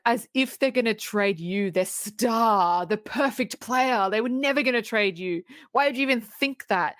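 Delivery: mock-indignant, pitch climbing; acted-out sarcastic outrage, mildly done; scornful retort. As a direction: throw it back at your sister in disbelief. Acting out Kit's jealous outburst.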